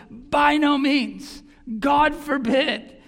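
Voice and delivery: ringing emphatic no from the pulpit; emphatic refusal. Retold or imitated. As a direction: reject it firmly, word by word. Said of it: "And emphatically".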